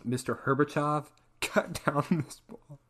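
hammed-up Reagan line; mock Reagan voice. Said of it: "Sounds like a drug dealer".

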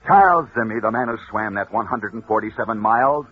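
building radio storyteller, punching the climax; dramatic story narration. Acted. Radio host telling listeners a sports legend, dramatic narration. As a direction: tell it like a rousing radio legend.

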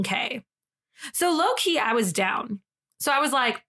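dramatized tweet thread with touches of Southern, quotes pitched high and sassy; story narration. Acted. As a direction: read it like a juicy story, acting out each quote. Read it like a story.

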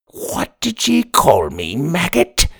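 slow, menacing pirate growl; a pirate who can't believe the insult; offended pirate. Acted. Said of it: "The cover's eye patch scowled".

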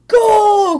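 high, loud, stretched-out goal cry; excited cry. A narrator's reading. Otter kicks the ball into Cat's fireplace, loud excited cry. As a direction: cry it out like a soccer announcer. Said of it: "cried Otter".

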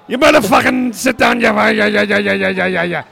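loud, hammed-up Irish rant running into babble; bad Irish impression, trailing into garbled yeahs; terrible Irish accent. Podcaster imitates the Irish guy two rows behind, bad Irish accent. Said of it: "the worst accent I've ever heard".

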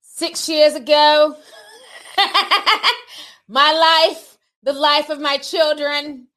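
lightly put-on British accent, drawn out; a hint of a British accent, read aloud to mock Depp; Johnny Depp's British accent. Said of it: "weird British accent".

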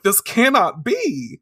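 hammed-up cry of the defeated; mock dramatic disbelief. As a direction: draw out each word in theatrical disbelief. Acts out Banan's doomed disbelief.

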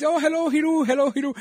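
very high mock South Asian hello; high-pitched imitation of a South Asian accent; imitated South Asian accent. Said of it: "speaking to them in their own accent".

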